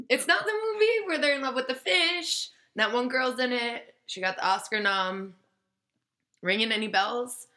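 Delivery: high, loud, exasperated correction; exasperated retort. Retold or imitated. Telling the skateboarder off about the movie, high exasperated retort. Retelling her exasperated reply to him.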